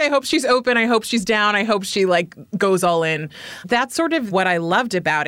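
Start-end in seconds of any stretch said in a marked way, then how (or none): 0.0-3.3 higher, eager hoping; cross your fingers and say it fast; hopeful inner voice. Retold or imitated. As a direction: instructor retelling her hopes for a new student, eager. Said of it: "I was like".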